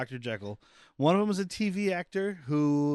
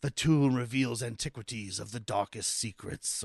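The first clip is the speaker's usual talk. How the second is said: lightly voiced film narrator; mock-solemn, poetic voiceover; poetic movie narration; 2 semitones lower than usual. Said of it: "like, the poetic narration of the movie".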